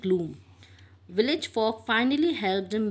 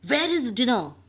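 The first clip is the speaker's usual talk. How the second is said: called out; 4 semitones higher, 5 dB louder than usual. A narrator's reading. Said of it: "Mister Oliver called out".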